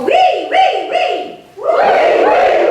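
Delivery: very high, loud "wee" squeals; playful high-pitched wee wee wee; high wee sounds. Shown as a demonstration.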